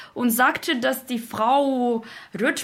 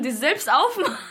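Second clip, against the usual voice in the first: laughing; 4 semitones higher, much faster than usual. Real, not acted. Remembers doors opening themselves.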